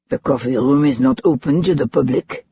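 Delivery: lightly voiced Frenchman with a Parisian accent; a hint of a Parisian accent, dismissive; heavy Parisian accent. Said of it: "in his heavy Parisian accent".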